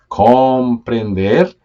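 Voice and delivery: "comprender" drawn out slowly, rising; slow stretched comprender. Shown as a demonstration. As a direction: stretch every syllable of "comprender". ("comprender" muy lento y alargado)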